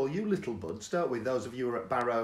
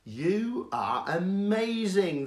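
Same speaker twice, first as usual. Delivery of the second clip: amazed prayer; 4 semitones higher, much slower than usual. Retold or imitated. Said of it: "I thought".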